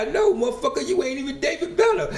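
very high squeaky delivery broken by laughter; laughing high quote. Retold or imitated. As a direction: crack yourself up on the punchline.

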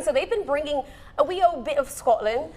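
put-on a light, playful stab at a Scottish accent; attempted Scottish accent. TV host tries a Scottish accent for the Highland Games, mock Scottish accent. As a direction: try out a mock Scottish accent, half-hearted. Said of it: "How's that accent".

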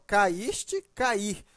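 strong I in both "caíste" and "cair"; stress on the I. Shown as a demonstration. Teacher showing students both words share pronunciation, stressed I. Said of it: "O I é forte nos dois casos".

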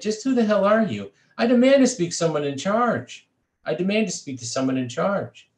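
high, loud indignant shouting; enraged demand. A narrator's reading. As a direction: demand it, furious and shrill.

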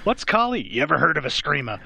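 lightly hammed-up trailer pitch, quizzing the listener; mock movie trailer. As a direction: spin a legend like a cheesy promo. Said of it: "I can already create a legend around that guy".

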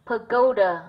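pagoda stressed on "go"; second-syllable stress. Shown as a demonstration. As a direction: lean on the middle syllable of pagoda. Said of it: "âm hai". (nhấn âm tiết hai của pagoda)

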